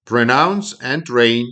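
slow, deliberate English motto; slow, careful English. Shown as a demonstration. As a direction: pronounce and train, drawn out. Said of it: "Вона звучить так".

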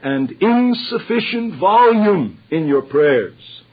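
slow, forceful, drawn-out emphasis; emphatic proclamation. Real, not acted. Preacher urging enough volume in prayer, slow and emphatic. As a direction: proclaim each key word with weight, stretching it out. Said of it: "I want to shout from the rooftops".

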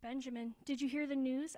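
loud, alarmed question; horrified. A narrator's reading. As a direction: blurt out shocking news loudly. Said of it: "asked Eli in horror".

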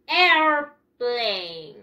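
"Airplane" slowly split into two long parts, "air-plane"; "Airplane" stretched, falling on "plane"; pronunciation model. Shown as a demonstration. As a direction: draw out both syllables of "Airplane" for learners. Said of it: "Listen to me".

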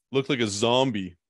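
usual speaking voice

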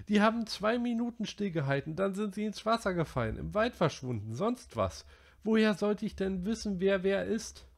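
put-on high boy's voice, worked up; Piggy scolding. A narrator's reading. Piggy berating the boys over the island fire, high and worked up. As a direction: rant at the careless boys.

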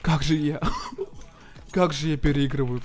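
gloating through laughter; laughing boast. Real, not acted. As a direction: laugh while bragging.

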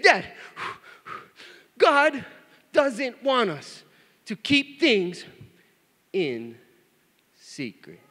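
high, slow imitation, broken by pauses; upset little boy. Son correcting Dad about secrets, mock-upset plea. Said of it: "He was all upset".

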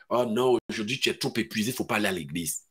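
low soft mock whine; lazy excuse. Tired believer excuses himself from church, low mock whine. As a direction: brush off church lazily.

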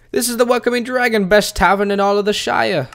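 high, loud innkeeper voice; hammed-up tavern host announcing in a high pitch; tavern keeper. Voicing tavern keeper's line.

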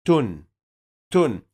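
تن said as "tun", closing on a clear n; short u plus n in تن; tanween with damma. Shown as a demonstration. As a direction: end تن on a vowelless noon. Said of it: "معاها النون الساكنة".

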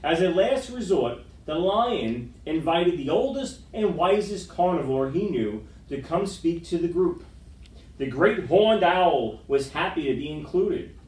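lively picture-book read-aloud; story narration. A narrator's reading. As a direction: read to the kids with gentle drama.

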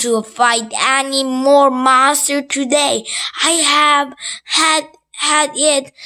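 high, loud princess shouting; cartoon princess yelling. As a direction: yell it like a fed-up princess. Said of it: "Princess in Black yelled quite loudly".

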